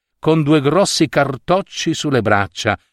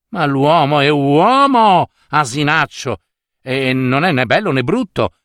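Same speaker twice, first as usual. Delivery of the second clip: irritated pronouncement; 2 semitones higher than usual. Acted. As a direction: lay down the law with huffy exasperation. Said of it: "sentenziò allora la sorella, stizzita". (sentenza stizzita della sorella)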